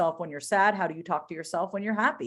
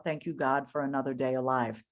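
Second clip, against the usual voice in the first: gentle prayer; 6 semitones lower, 3 dB quieter than usual. Retold or imitated. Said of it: "I say out loud".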